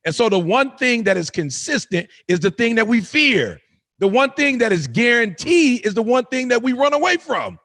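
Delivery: emphatic, measured sermon delivery; motivational preaching. Acted. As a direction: preach it with conviction, in rising and falling phrases. Preaches to listeners.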